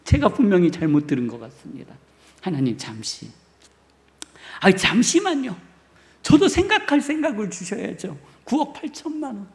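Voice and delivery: flustered stalling. Pretend. Preacher mimics believers stalling before God, mock flustered. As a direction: lightly play a believer dodging God's request. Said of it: "우리는 이렇게 할 겁니다".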